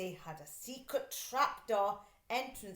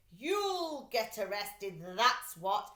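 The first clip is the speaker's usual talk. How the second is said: slow, louder gloating; triumphant taunt; 5 dB louder, slower than usual. Acted. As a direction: savor the arrest. Mister Dart triumphs.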